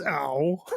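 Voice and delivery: short mock cry of "ow"; a mild, acted-out "ow"; imitated "ow". Voicing him sliding back under the machine, mild mock "ow". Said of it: "he just kinda goes".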